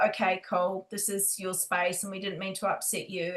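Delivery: quiet, placating apology to an angry ghost; soft apology. Retold or imitated. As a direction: back away gently, apologising. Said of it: "we kind of were like".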